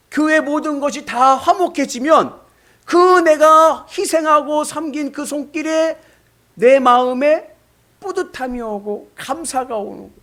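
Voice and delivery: high, loud, slow pulpit build; fervent preaching. Acted. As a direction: preach it with rising fervour. Preaching at full force. (열정적인 설교)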